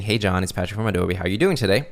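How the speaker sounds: relaxed, genuine-sounding greeting; positive, casual tone. Shown as a demonstration. Caller greeting a prospect, casual and positive. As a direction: say it easily with a hint of positivity. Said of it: "in the positive tone that I'm using".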